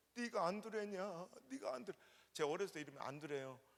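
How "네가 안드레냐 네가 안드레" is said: put-on tearful, crying voice, called out. A speaker retells people his parents helped hugging him, imitating people crying. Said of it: "그분들이 막 울면서 저를 껴안고".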